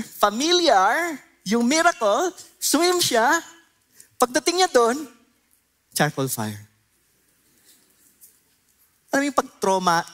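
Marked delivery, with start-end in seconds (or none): 0.0-5.1 much higher and louder, slow at first; rising intensity. Real, not acted. Preacher to congregation, climbing high and loud with urgency. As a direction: build the tension as the memory returns. Preacher building Peter's trauma.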